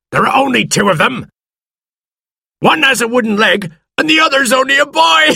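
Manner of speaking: high-pitched mocking taunt, climbing into laughter; jeering pirate. A narrator's reading. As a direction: scoff at the weak enemy. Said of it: "laughed another pirate".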